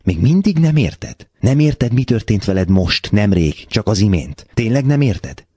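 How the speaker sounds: very high, insistent disbelief; incredulous questioning. A narrator's reading. The girl asking if he still doesn't understand, incredulous. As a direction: press each question upward, astonished.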